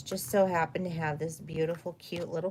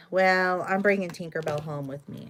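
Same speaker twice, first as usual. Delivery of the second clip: defiant announcement; 5 dB louder than usual. Retold or imitated. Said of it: "and I said".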